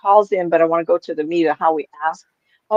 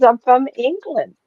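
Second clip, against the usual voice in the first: put-on higher, slow British accent; lightly imitated British lady; 5 semitones higher than usual. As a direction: state your origin slowly in a British accent. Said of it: "she had a British accent".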